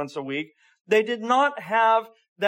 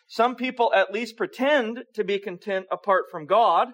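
"pretend" punched louder than usual; stress on "pretend"; 4 semitones higher, 4 dB louder than usual. Real, not acted. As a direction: lean firmly on the word "pretend". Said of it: "stress the word pretend".

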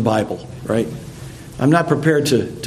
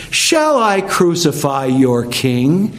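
slow, disdainful question; venomous sarcasm; slower than usual. Acted. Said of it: "the venom in his words and the sarcasm and the disdain".

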